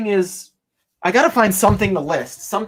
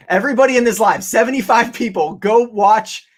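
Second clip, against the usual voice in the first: laughing; 4 semitones higher than usual. Real, not acted. Laughing call to viewers.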